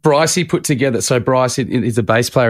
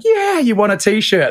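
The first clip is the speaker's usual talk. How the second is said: high, slow mock-enthusiastic offer; Bryce; 11 semitones higher, slower than usual. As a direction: call it out to a heckler, stretched and pitched up. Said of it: "and Bryce is like".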